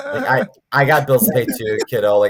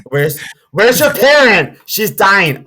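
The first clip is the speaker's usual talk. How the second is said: raised, higher exclaiming voice; mock alarmed outburst; 6 semitones higher, 4 dB louder, slower than usual. Clerk and kid arguing about the dying mom, mock alarmed. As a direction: call it out in hammed-up alarm.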